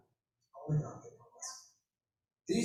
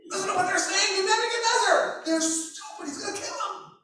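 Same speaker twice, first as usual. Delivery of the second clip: shocked onlookers; 9 semitones higher than usual. Retold or imitated. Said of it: "Everyone there is gonna be like".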